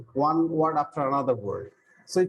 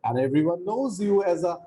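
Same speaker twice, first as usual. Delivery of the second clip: dialogue read aloud; 3 semitones higher than usual. Shown as a demonstration. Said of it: "So let me read that dialogue".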